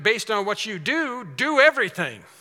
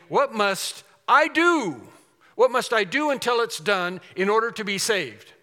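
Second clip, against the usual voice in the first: pleading question; 4 semitones higher, 5 dB louder than usual. Retold or imitated. Rich young ruler's anxious plea.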